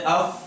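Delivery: "اف" ending on a vowelless f; fa with sukun. Shown as a demonstration. Teacher modelling fa sakin for repetition, careful articulation. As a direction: close "اف" on a clean f with no vowel. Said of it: "چلیں اس کو ساکن کر دیں".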